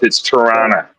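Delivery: TORONTO slid out as "Tuh-ronna"; sliding pronunciation. Shown as a demonstration. Coaching friends to slide it out, TORONTO as "Tuh-ronna". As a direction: slide TORONTO out of your mouth, second T dropped. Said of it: "you gotta slide it out of your mouth".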